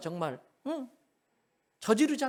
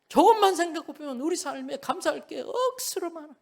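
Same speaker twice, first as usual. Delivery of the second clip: a touch of Gyeongsang dialect, higher pitch; 10 semitones higher, 4 dB louder than usual. Shown as a demonstration. Preacher showing his congregation the Gyeongsang dialect way. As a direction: say 억수로 with a light Gyeongsang lilt. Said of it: "경상도 사투리로 뭐예요".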